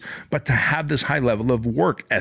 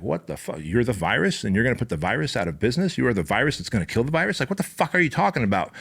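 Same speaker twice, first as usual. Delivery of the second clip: mock the team's confusion; baffled disbelief; faster than usual. Leadership team reacting to his rant, baffled disbelief. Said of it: "my leadership team is like".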